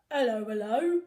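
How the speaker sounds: loud, booming policeman greeting; Officer Pugh. A narrator's reading. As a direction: call it out like a bobby on the beat. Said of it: "said Officer Pugh".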